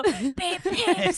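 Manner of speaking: imitating a storyteller breaking into laughter; laugh-choked imitation; laughing through it. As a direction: try to get it out through giggles. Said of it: "you can't get it out".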